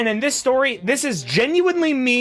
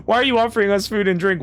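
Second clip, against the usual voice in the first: suspicious adventurer; 3 semitones higher than usual. Acted. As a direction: voice the wary adventurer asking, mildly acted. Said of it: "one of the adventurers asks".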